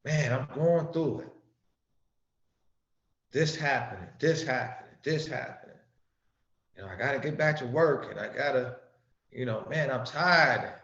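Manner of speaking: a hint of a tired toiler's voice; weary working man. Preacher voicing poor toilers complaining, lightly weary. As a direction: lightly voice a worn-out worker. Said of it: "the common people would say".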